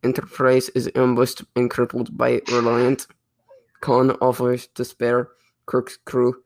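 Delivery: put-on lightly held Russian accent. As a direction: plot summary in a mock Russian accent. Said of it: "I'm slipping out of the accent".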